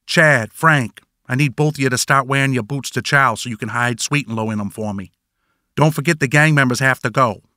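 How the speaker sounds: a light mock Boston accent, dropping R's; imitating the boss in a hammed-up Boston accent; fake Boston accent. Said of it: "Sad Boy says this in a fake Boston accent".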